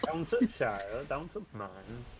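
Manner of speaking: clipped Yorkshire 'to' in "Down to Shire"; Yorkshire 't' for 'to the'; Yorkshire dialect. Shown as a demonstration. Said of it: "bits of Yorkshire I ... refuse to do".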